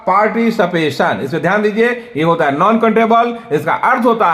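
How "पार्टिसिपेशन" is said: "पार्टिसिपेशन" with a clear sh: par-ti-si-pe-shan; correct pronunciation shown. Shown as a demonstration. Teacher correcting the common mispronunciation for students. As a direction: model "पार्टिसिपेशन" the right way, crisp sh at the end. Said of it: "इसका उच्चारण होगा".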